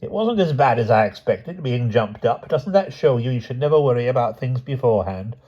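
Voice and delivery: lightly voiced calm old aunt; serene, cheerful old aunt. Aunt Fennel reassuring Lucy, cheerfully unbothered. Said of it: "she seemed quite serene, even cheerful".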